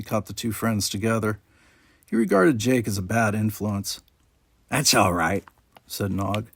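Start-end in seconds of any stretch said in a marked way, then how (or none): 4.7-5.4 put-on nasal-free odd Ferengi kid voice; a scheming little alien; sly Ferengi boy. A narrator's reading. Nog suggests eating at his uncle's bar, a sly Ferengi kid voice.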